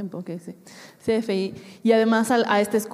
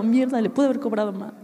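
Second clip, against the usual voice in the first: mock annoyed. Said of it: "llevo enojada".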